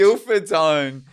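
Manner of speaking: slow, high, loud proclamation; mock grand announcer. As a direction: boom it like a stadium call.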